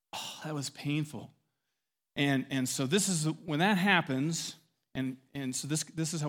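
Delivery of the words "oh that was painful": softer, pained murmur; quietly stung by the remark; a hushed touch of hurt; wounded reaction. Acted. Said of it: "her hurt meter just went".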